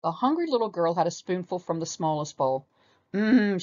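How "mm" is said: relieved, satisfied hum; contented storybook "mm". A narrator's reading. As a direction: savour it with relief. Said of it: "she announced with relief".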